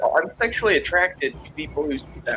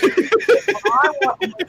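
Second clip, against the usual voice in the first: raised gay voice; 9 semitones higher, 5 dB louder, slower than usual. Shown as a demonstration. Podcast host demoing the gay voice to friends, lightly camp. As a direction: pitch it up, a bit camp and slow. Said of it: "I raise my voice just a little bit".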